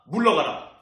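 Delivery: acted rebuke, opening high and loud; stern rebuke. Jesus rebukes Peter to his face, acted stern command. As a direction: sharply order the tempter away, in imitation. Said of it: "예수님이 꾸짖으며 말합니다".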